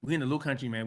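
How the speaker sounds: lowcountry Geechee accent. Shown as a demonstration. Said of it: "I'ma say it in my Geechee voice".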